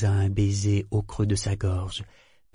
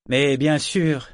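polite, drawn-out assent, pitch raised; 4 semitones higher, 4 dB louder, slower than usual. A narrator's reading. Captain answering the ship's declaration, politely. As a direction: agree courteously, slow and higher. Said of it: "dit-il poliment".

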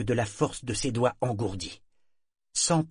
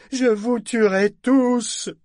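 even higher, very slow scream of je vous tuerai tous; screamed threat; 13 semitones higher, 8 dB louder, much slower than usual. Acted. Parangon vows to kill them all, screaming. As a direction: shriek it as the final promise.

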